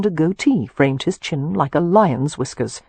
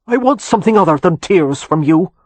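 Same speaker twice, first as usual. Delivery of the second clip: put-on old earl's louder Anglo-Irish lilt, graceful and lightly arid; lightly flowing Anglo-Irish; 2 semitones higher, 7 dB louder than usual. A narrator's reading. Old Irish earl addressing two young men, flowing Anglo-Irish accent. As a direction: state it with a light, dry Anglo-Irish flow. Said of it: "in flowing Anglo-Irish accent".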